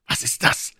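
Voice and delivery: hushed, stifled question; urgent stage whisper; suppressed voice. A narrator's reading. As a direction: ask it under your breath, voice held back. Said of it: "rief Joe mit unterdrückter Stimme".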